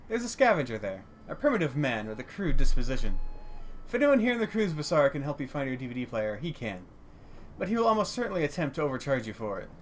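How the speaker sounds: measured, formal shopkeeper delivery; lightly voiced dwarf trader. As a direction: lightly play a well-spoken dwarf stallholder. Voices dwarf stallholder in game.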